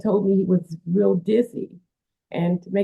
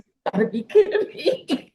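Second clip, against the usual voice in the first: much higher, amazed pitch jump; retold disbelief; 9 semitones higher than usual. Mother hearing the stranger is a famous wrestler, higher in amazed disbelief. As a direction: squeak it out like you can't believe it.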